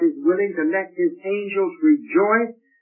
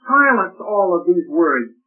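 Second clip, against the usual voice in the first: loud, pushy demand; brash interruption; 6 dB louder than usual. Retold or imitated. Worshipper interrupting heaven's praise to boast, loud demand. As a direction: barge in and silence heaven. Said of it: "go up to God and say".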